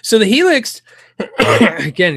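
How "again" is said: coughing mid-sentence; real cough before the word; coughing fit. Real, not acted. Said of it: "apologize for coughing".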